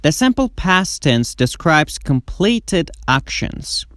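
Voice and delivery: very slow, careful English sentence; slow model reading. Shown as a demonstration. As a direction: read it slowly for students to copy. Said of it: "slow model sentence". (خواندن آهسته و شمرده)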